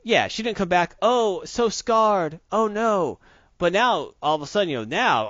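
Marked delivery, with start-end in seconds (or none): 1.0-3.2 loud, slow, hammed-up wail; mock anguish. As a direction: whine it like a melodrama. Mocking She-Hulk's angst.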